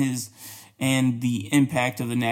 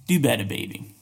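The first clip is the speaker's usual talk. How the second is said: auntie grandma voice. Pretend. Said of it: "in my best auntie grandma voice".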